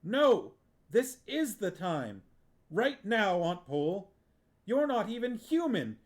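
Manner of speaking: put-on a boy pouring out years of resentment at his aunt; furious tirade. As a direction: let the anger run away with you.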